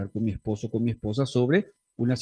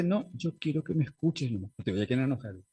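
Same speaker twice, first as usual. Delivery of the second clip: spouse's request; 5 dB quieter than usual. Retold or imitated. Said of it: "Si la otra parte te dice".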